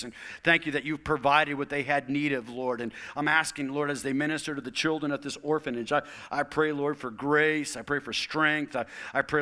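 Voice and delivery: earnest pastoral prayer. Acted. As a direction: pray over the congregation.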